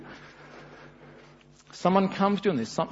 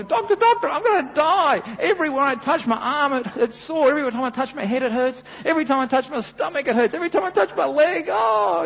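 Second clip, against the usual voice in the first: much higher, louder hypochondriac whine; hammed-up moaning to the doctor; mock panicked patient complaining of pain; whiny patient; 11 semitones higher, 4 dB louder than usual. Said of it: "he kept saying to the doctor".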